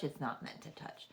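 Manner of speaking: breathy whisper, dropped right down; hushed unvoiced repeat. Shown as a demonstration. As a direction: whisper it as a private aside.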